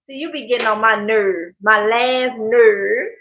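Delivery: lightly imitated uncle's grumble, last word stretched; a hint of mock exasperation, slowing on the final word; uncle's catchphrase. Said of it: "me saying it like that".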